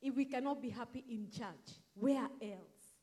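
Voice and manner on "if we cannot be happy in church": ordinary talk, nothing marked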